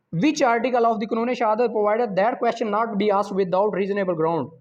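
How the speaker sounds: slow, careful reading of an exam question; measured quiz reading. Acted. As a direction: read each option out deliberately. Reads exam question slowly.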